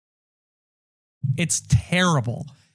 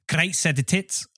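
South African accent; 2 semitones higher, 4 dB quieter than usual. Shown as a demonstration. Host demonstrating how it sounds to listeners, South African accent. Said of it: "in their accent".

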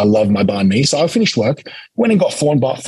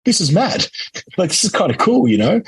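gleeful amazement; 6 semitones higher than usual. Retold or imitated. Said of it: "I'm like".

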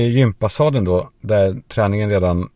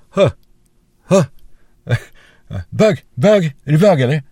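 loud jeering schoolboy yell, high; mock shout; 7 semitones higher, 6 dB louder than usual. Boys jeering in the echoing shower, loud yell. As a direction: bellow the taunt across the shower.

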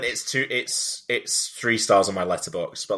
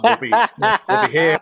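laughing; 9 semitones higher, 4 dB louder, slower than usual. Real, not acted. Laughing through sign-off.

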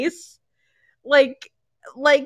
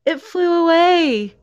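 higher, slow, drawn-out mock innocence; imitated wife; 5 semitones higher, slower than usual. Wife explaining missing baby, mock innocence. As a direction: stretch it out like an absurd excuse. Wife's absurd answer acted out.

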